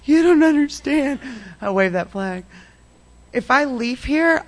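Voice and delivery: insistent protest. Retold or imitated. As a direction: push back hard, desperate to be heard. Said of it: "That was my favorite flag".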